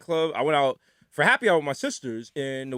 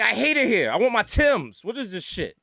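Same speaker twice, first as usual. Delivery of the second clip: higher-pitched griping; exasperated complaint; 5 semitones higher than usual. Retold or imitated. Visitor griping about LA's cold, exasperated. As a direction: whine in mild disbelief at the cold.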